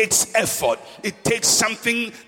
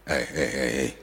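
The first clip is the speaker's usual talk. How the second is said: hushing crowd; 4 dB quieter than usual. Acted.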